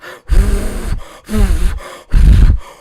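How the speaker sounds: loud breathless exhale after screaming; exhausted gasp. Real, not acted. Fan catching his breath after the goal, loud heavy exhale. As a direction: let the air out, spent from shouting.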